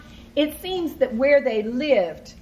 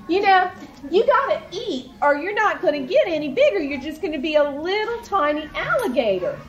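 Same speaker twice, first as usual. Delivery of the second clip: coaxing siblings; 5 semitones higher than usual. Acted.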